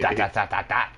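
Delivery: rapid string of evenly punched "dot"s; emphasized dots. Pretend. Co-host joins in the joke, each "dot" punched. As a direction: hammer every "dot" playfully. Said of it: "you have to emphasize on the dot".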